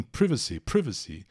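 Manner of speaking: privacy as "PRIV-a-si", short I; British pronunciation. Retold or imitated. Teacher echoes actors in The Crown, British pronunciation. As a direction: repeat privacy with a British short first vowel. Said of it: "eles falam o tempo todo assim".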